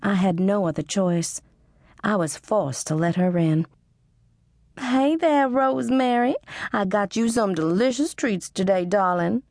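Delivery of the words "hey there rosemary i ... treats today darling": higher, sing-song gushing greeting; gushing Mrs McCutcheon. A narrator's reading. Pushy customer greeting the shop girl, gushing. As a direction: sweeten every word for the girl.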